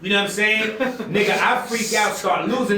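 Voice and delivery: usual speaking voice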